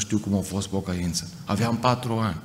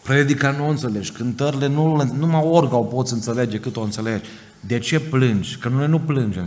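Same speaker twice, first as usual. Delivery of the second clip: raised, higher pleading question; questioning pastor; 3 semitones higher than usual. Retold or imitated. Romanian pastor asks the weeping Italian brother why, raised voice. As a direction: press him, puzzled and urgent. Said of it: "și-a zis".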